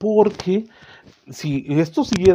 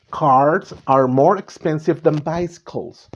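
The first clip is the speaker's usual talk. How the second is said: slow example read; slower than usual. Shown as a demonstration. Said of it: "teacher reads example slowly".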